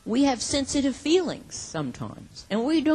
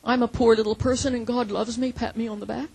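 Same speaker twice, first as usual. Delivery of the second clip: mock complacency. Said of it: "We try to say".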